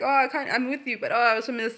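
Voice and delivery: high, hammed-up yearning; mock pining. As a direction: imitate someone torn and missing their ex. Mimics a pining ex.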